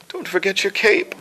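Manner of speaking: high-pitched, strained character voice; demon general catchphrase. Acted. Voice actor does his favorite line, high demon general voice. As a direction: cry it out high, hammed-up. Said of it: "one of my favorites that I do".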